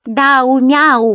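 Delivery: high, loud teasing name-call; mock the name like a cat's meow; taunting. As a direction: creature teasing Daume. Creature mocks Daume's name.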